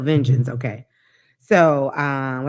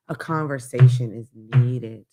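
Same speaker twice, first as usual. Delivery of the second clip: slowed down; 6 semitones lower, 4 dB louder than usual. Shown as a demonstration. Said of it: "that's why I'm slowing down to say".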